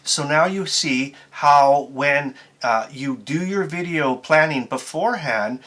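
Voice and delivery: slow, halting read with gaps between phrases; slow teleprompter reading, pausing mid-sentence. Shown as a demonstration. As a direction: read it stiltedly, as if following a teleprompter. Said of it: "it would probably look more like this".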